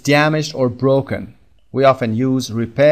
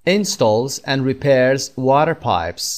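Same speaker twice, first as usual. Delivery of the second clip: slow model reading; much slower than usual. Shown as a demonstration. Teacher reads the definition to learners, very slow and careful. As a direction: read "Builds or repairs homes" very slowly, word by word. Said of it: "teacher models definition sentence".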